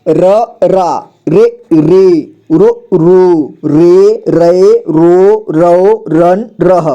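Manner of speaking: slow, sing-song syllable recitation; slow teacher drill chant. Shown as a demonstration. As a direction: chant each syllable out for the class. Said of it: "र का देखिए".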